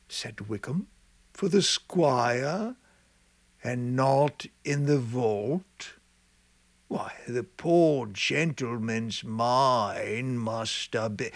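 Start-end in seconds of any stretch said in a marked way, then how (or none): 1.3-11.3 lightly voiced old gravedigger, wondering.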